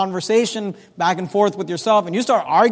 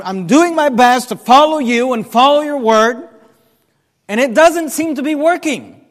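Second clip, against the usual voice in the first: rising, straining plea that sinks to a hushed close; desperate prayer; 3 semitones higher than usual. Acted. Believer praying to God, strained and then hushed. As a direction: pray like it isn't working.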